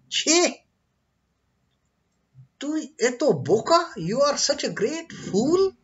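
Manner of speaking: high, loud scolding; angry guru. Acted. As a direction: scold the foolish disciple sharply. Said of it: "the Gurudev gets angry upon him".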